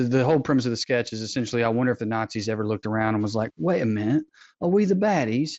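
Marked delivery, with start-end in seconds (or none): 3.6-5.5 put-on a light British accent, rising at the end; mock British officer asking, a touch alarmed; hint of a British accent, quizzical. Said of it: "That's why I did a British accent".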